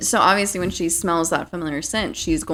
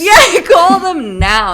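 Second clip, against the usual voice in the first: urgent shout; 12 semitones higher, 10 dB louder, slower than usual. Retold or imitated. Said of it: "Call the cops".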